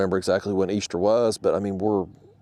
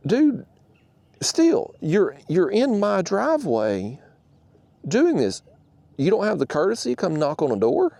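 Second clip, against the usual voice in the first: indignant; 5 semitones higher than usual. Retold or imitated. Confronting the neighbor in his driveway.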